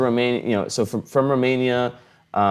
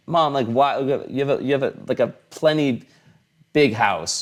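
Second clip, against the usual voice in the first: higher-pitched retold plea to mom; exasperated protest; 6 semitones higher than usual. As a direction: protest to your mother, pitched up.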